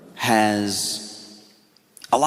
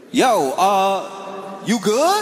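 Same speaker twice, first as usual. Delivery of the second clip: much higher, alarmed friend; high and half sung, checking he's okay; worried friend voice; 13 semitones higher than usual. Retold or imitated. Friend on the phone, high and alarmed.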